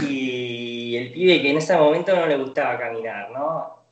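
a hint of a Buenos Aires lilt while narrating; acento argentino. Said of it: "paro de imitar el argentino". (leve acento argentino imitado)

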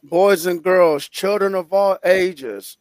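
booming circus ringmaster intro. Acted. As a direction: announce it like a big top. Podcast opening announcement.

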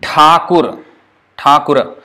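Thakur with a breathy aspirated retroflex th; Thakur, th with a puff of air; correct Thakur. Shown as a demonstration. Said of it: "we say Thakur".

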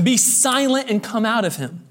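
mild rebuke, ordering a spirit out; rebuking. Acted. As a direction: command it with authority. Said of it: "Jesus rebukes him".

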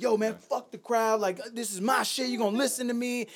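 mock battle aggression. Rapper re-enacting his first set at the crowd, mildly aggressive. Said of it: "way more aggressive and angry".

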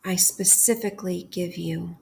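calm, unhurried prayer with long pauses between phrases; guided prayer meditation. Acted. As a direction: lead a bedtime prayer, leaving room to repeat each phrase. Leads a bedtime guided prayer.

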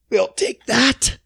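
slow, high smug take; drawn-out high mock official; smug greedy official. Mocking greedy authorities.

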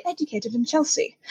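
put-on posh Chelsea accent. Contrasting London talk with Chelsea, soft posh accent. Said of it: "lost my posh accent".

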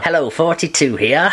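nasal know-it-all nerd impression; nerdy voice. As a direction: do the YouTube nerd's greeting. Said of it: "he's got a very nerdy voice".

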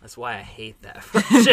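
laughing through the complaint. Real, not acted. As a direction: giggle mid-sentence.

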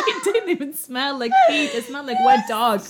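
high, loud laughing shout; real laughter. Real, not acted. Laughing while telling.

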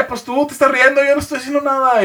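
high-pitched defensive comeback; mock protest. Novio responde a la novia que se ríe, protesta aguda fingida. Retold protest to laughing girlfriend.

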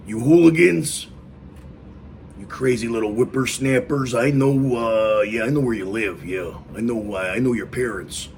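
mock-yell at the kids off the lawn; grumpy old guy. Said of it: "be like the old grumpy guy and yell out the window".

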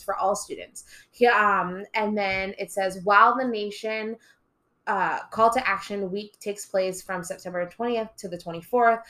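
reading a website snippet aloud. Shown as a demonstration. Teacher reading the program's website to listeners, reading aloud. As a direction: read it out like an announcement. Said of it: "gonna read a little bit of a snippet".

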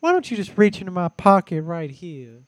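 loud, high old-creep impression; Herbert. Quoting Herbert to amuse his friends, loud creepy voice. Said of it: "he'd do the Herbert voice".

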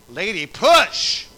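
loud, drawn-out delivery-room command; urgent mock order. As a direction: imitate staff shouting at a woman in labor. Retold order to push.

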